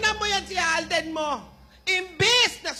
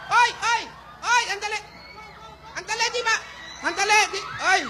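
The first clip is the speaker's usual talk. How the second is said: loud, frantic grandma yells; frantic shouting; 4 semitones higher, 4 dB louder than usual. Acted. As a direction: yell after the thieves in a panic. Grandma yelling at thieves.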